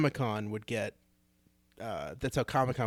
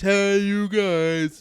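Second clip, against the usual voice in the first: Goonies shout; 9 semitones higher, 11 dB louder, much slower than usual. Retold or imitated. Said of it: "I think Goonies".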